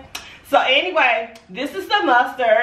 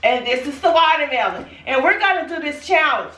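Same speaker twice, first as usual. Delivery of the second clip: popular voice; 4 semitones higher than usual. Acted. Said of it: "that's my popular voice".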